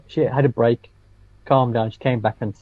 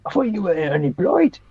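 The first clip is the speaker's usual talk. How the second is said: put-on Yorkshire accent; 7 semitones higher than usual. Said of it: "A Yorkshire guy stood up and said".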